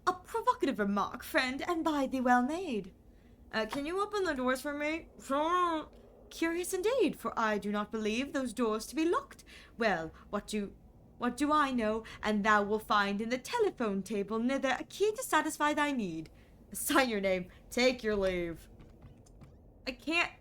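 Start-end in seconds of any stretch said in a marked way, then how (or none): 0.1-2.9 lightly voiced stiff old-fashioned gentleman; a hint of a pompous Shakespearean host; archaic landlord. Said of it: "When did you start talking like this?". 6.3-9.4 lightly voiced stiff old-fashioned gentleman; a hint of a pompous Shakespearean host; archaic landlord. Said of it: "When did you start talking like this?". 12.2-18.6 lightly voiced stiff old-fashioned gentleman; a hint of a pompous Shakespearean host; archaic landlord. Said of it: "When did you start talking like this?".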